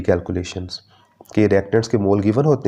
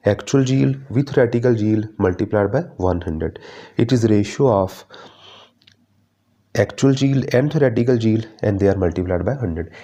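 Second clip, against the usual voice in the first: dictating the points very slowly; slow syllabus reading; much slower than usual. Acted. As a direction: spell each point out for notes. Reads definition aloud. (धीरे धीरे syllabus पढ़ना)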